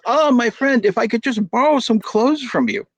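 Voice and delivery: lightly voiced mullah asking a favour; sly mullah. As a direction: charm your way to a loan. Wise mullah asks a favour.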